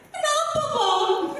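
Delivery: high, slow, soft little wife's voice; wife asking. Acted. Wife asks her husband why, high and soft. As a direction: squeak it out as the sad wife.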